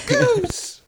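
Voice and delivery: Jim Carrey goose. Retold or imitated. Repeating the Jim Carrey bit.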